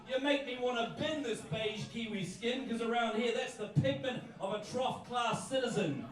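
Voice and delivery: driving, rhythmic poetry rant; comic slam poem. Acted. Kiwi poet telling crowd to drop clichés, rhythmic comic rant. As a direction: build the verse like a mock protest.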